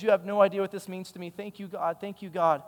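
lightly imitated Nigerian accent, grateful; hint of a grateful Nigerian woman's accent; attempted Nigerian accent. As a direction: retell her thanks with a touch of Nigerian accent. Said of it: "I can try my best on the accent".

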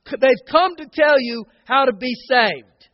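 mild preacher's shout of a quote; retold shouting. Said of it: "she was shouting".

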